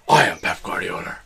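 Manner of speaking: firm mock Spanish accent; Pep Guardiola. Shown as a demonstration. Podcaster corrects his co-host's manager impression, emphatic Spanish accent. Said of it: "this is how you do a good accent".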